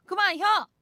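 loud, high Jeolla dialect snap; hammed-up dialect retort. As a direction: toss it off in broad dialect. Dialect punchline after laughing.

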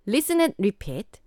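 very slow listening-test announcer in English. Pretend. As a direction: announce it like a language tape, slowly spaced. Mimics language listening-test announcer. (영어 듣기 평가처럼 느린 안내 멘트)

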